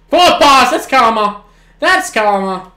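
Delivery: high, loud triumphant cry; real gloating yell; gleeful shout. Real, not acted. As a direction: crow it at the screen. Referee calls forward pass.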